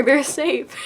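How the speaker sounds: breaking into a laugh mid-phrase. Real, not acted. Telling viewers the characters seem safe, laughing. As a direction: let the giggle spill over the words. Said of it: "I don't know why I keep laughing".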